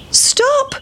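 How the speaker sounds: high called-out stop; little boys calling after it; shout. Acted. Boys chasing the pancake, high calling shout. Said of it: "shouted the seven little boys".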